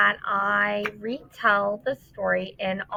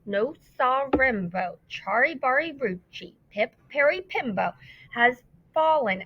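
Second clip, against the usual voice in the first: slowly; 2 semitones higher than usual. Acted. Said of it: "and said very slowly".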